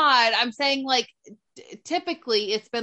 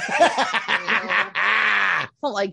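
laughing shout; 4 semitones lower, 3 dB louder, much slower than usual. Real, not acted. Laughing slow outburst.

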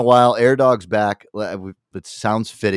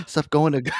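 mock shout; 6 semitones higher than usual. Mocking the old man's rant.

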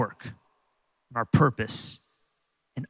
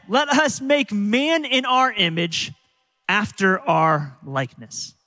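slow reading; slower than usual. Acted. Reading God's words from Genesis.

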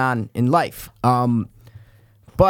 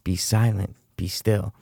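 Wahlberg acting; 4 semitones lower, 4 dB quieter, slower than usual. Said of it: "acting chops for Marky Wahlberg".

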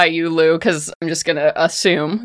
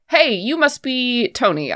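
Cassie; 6 semitones higher than usual. Acted. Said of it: "She's like".

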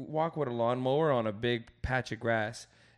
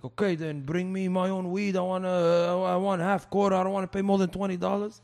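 offended coworker; 6 semitones higher, 7 dB louder than usual. Retold or imitated. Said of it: "he got all offended".

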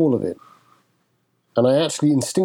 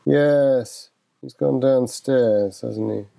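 irritated, distracted; much slower than usual. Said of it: "in my irritated, distracted voice".

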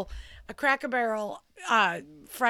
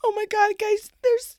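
higher and louder, thrilled; excited; 11 semitones higher, 7 dB louder than usual. Real, not acted. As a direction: burst out to the viewers. Excited outburst to viewers.

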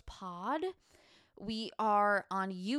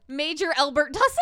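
high shrieking witch cackle; Winifred Sanderson; 10 dB louder than usual. Acted. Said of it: "I just sounded like Winifred Sanderson".

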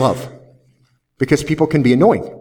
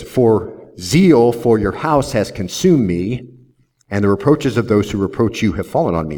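scripture reading; 3 semitones lower than usual. Acted. Reading Psalm aloud slowly.

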